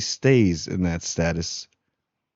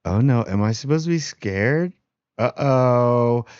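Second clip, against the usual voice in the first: mock scared; 3 semitones higher than usual. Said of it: "He's like".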